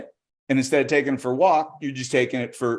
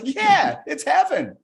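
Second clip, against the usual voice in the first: dog voice; 12 semitones higher, slower than usual. Acted. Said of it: "He's like".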